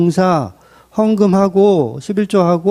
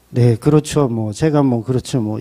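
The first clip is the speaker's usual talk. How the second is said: sheepish admission; 8 semitones lower than usual. Pretend. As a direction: mumble it like someone caught out. Sinner meekly admits neglect.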